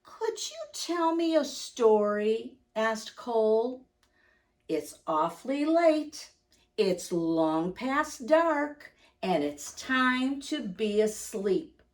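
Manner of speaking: gentle read-aloud voice for little listeners; cosy picture-book narration; storybook reading. Acted. Reads picture book aloud to children.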